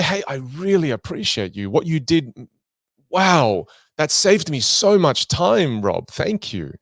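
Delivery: warm, lifted, slowed on saved me so much time; mean every word; heartfelt thanks. Shown as a demonstration. Teacher shows sincere thanks to Rob, warm and slowed. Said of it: "Or you can say".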